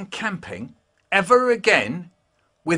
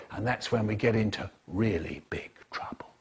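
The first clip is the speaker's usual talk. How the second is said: whispering; 7 semitones lower, 10 dB quieter than usual. Acted. Whispered ominous line.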